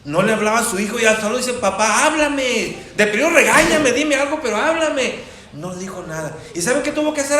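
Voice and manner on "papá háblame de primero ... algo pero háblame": higher, louder, begging son with a laugh in it; pleading son. Retold or imitated. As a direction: beg the father to finally speak, half laughing. Son pleading with silent father.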